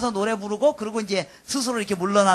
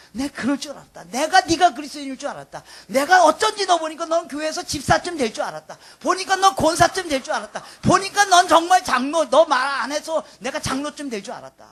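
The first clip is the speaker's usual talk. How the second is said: raised, emphatic voice of recognition; imagined onlookers' admiration; 3 semitones higher, 5 dB louder than usual. Pretend. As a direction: act out outsiders insisting they knew it all along. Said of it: "세상 사람들이 우리에게 뭐라고 반응할". (진작 알아봤다는 듯 높고 힘주어)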